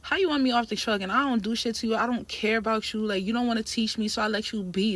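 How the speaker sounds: retold petty arguing, quick in places; rapid, petty back-talk; petty comeback. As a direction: fire back pettily, mildly worked up. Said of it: "now I start getting petty".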